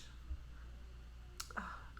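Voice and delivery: long, soft sigh of distress; acted sigh. Parents freaking out over missing son, acted sigh. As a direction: sigh out quietly, as if overwhelmed.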